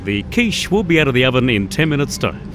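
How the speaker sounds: platform announcement voice; train announcer. Retold or imitated. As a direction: announce it like a station PA. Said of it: "Everything becomes a train announcer".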